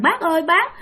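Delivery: put-on high pleading child's voice; frightened child telling his uncle, high and tearful; crying child. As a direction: beg the uncle like a scared crying boy. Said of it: "ba vừa khóc mà vừa nói".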